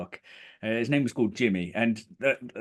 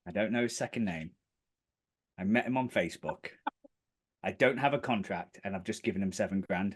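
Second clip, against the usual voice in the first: dawning dismay; 4 semitones lower, 6 dB quieter than usual. Retold or imitated. The penny drops.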